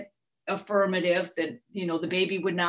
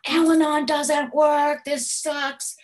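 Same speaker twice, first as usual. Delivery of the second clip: higher, louder, slow mock rant of fury; retold angry outburst; 8 semitones higher, 4 dB louder, slower than usual. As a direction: replay the blow-up, dragging the words. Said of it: "I am so angry".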